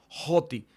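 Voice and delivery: Joti with a breathy rough breathing at the start; aspirated joti. Shown as a demonstration. Teacher modelling rough breathing for students, clear aspiration. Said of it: "pueden pronunciarlo".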